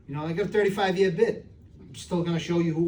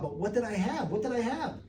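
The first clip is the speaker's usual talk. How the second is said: higher-pitched mock crying, rising at the end; imitated tearful plea; 4 semitones higher, 4 dB quieter than usual. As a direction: plead as if crying, without real sobs. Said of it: "the guy was crying".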